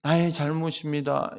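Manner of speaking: slow, subdued admission of fault; sudden confession. Acted. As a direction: drop abruptly into slow contrition. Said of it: "막 탄식하더니 갑자기".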